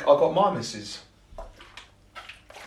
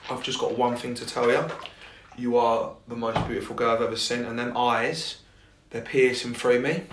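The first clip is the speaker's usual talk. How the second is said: a nice soft voice, said gently; a hint of a soft chat-up line to a girl at the bar; soft smooth line; 3 semitones lower, 5 dB quieter than usual. Shown as a demonstration. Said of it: "If you say it in a nice voice, nice and soft".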